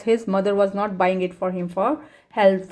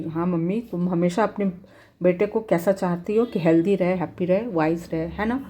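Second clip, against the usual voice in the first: loving tone; 2 semitones lower, much faster than usual. Retold or imitated. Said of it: "एकदम प्यार से बोल रहा है".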